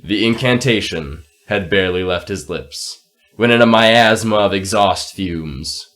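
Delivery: slow dramatic storyteller; story narration. A narrator's reading. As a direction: read it like a fantasy tale. Narrates the scene.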